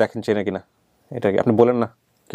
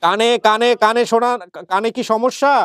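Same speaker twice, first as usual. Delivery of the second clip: to someone hard of hearing; 11 semitones higher, slower than usual. Real, not acted. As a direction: speak slowly for a deaf ear. Host asks deaf mother loudly.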